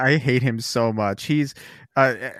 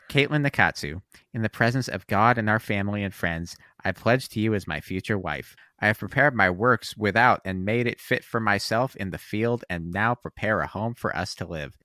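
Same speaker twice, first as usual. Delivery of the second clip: Ben Shapiro voice; 2 semitones lower, 4 dB quieter than usual. Retold or imitated. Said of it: "I'm going to use my Ben Shapiro voice".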